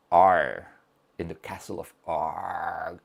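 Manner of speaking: loud drawn-out groan, then a low murmured castle name; mock dying groan; Monty Python Aaargh. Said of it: "the reference from Monty Python".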